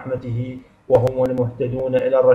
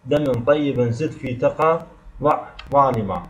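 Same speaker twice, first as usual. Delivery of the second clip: recited mnemonic verse. Shown as a demonstration. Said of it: "مجموعة في البيت التالي".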